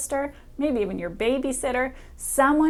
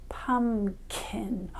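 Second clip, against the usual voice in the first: soft listening word; 6 dB quieter than usual. Shown as a demonstration. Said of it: "Do you hear a k sound".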